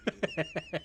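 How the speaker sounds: very high shrieked insult; squeaky yell. Real, not acted. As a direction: shriek it in mock outrage. Playful insult reply.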